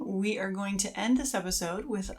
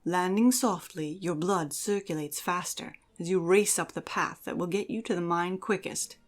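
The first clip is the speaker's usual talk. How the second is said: dramatic story narration. Acted. Host narrating the elf's adventure to listeners, dramatic and measured. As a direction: read it like an epic tale.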